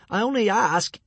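high, squeezed voice; gasping for air. A narrator's reading. Hiccup answering while being strangled, high gasping voice. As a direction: push it out against the squeeze. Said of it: "said Hiccup, gasping for air".

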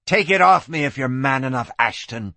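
understated hissed challenge; mild hiss. Acted. Knife-wielding woman dares the lawman, mild hiss. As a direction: dare him with a slight hiss. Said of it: "she hissed".

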